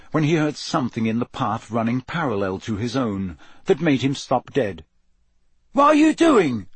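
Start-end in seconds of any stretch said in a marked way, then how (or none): 5.7-6.7 high, loud shout of protest; alarmed yell. A narrator's reading. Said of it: "yelled Cedric's voice".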